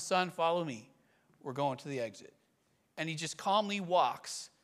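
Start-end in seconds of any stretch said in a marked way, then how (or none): 0.0-2.3 calm, low-key instruction, trailing softer; calm father. Retold or imitated. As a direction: lead your son out calmly, without alarm. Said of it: "calmly reaches back".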